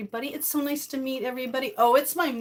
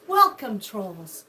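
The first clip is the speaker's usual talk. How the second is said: mock ominous; 2 semitones lower, 5 dB louder, much slower than usual. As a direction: drop the voice to mock the trolls. Welcoming the trolls mockingly.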